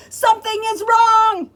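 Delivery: loud high alarmed shout. Acted. Keeper shouts about the animals. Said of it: "he shouted".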